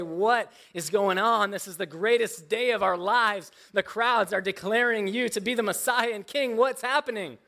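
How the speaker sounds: half-acted puzzled question to the teacher; bewildered disciple. Disciple asking his crying master what's wrong, mildly bewildered. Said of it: "and you say".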